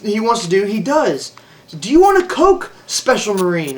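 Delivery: a touch of high sneering sarcasm; patronizing mock voice. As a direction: talk down to him like a spoiled child. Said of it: "they patronized me".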